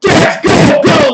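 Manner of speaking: high, loud excited gamer shout; urgent, high-pitched yell; retold yelling. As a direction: re-enact yelling in the heat of a fight. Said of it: "I'm fucking yelling".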